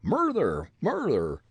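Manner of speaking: high, loud Irish cry; Irish shriek. Acted. Irishman landed on, shrieking in Irish brogue. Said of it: "shrieked a man's voice".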